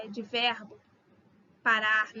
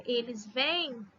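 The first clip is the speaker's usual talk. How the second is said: "vêm" drawn out slowly; slow plural vêm; 3 dB quieter, slower than usual. Shown as a demonstration. Teacher dictating plural form slowly. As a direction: spell out "eles vêm" slowly for class. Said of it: "com acento circunflexo pra diferenciar".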